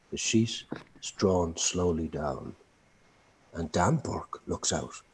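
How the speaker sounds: slow, hushed whisper. A narrator's reading. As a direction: hush it, slowly. Eerie moment in stage directions.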